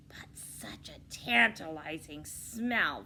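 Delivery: slow whispered wolf line; a hungry wolf breathing the words; wolf growling. Acted. Wolf sniffing the muffins, a whispered growl. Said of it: "the wolf growled".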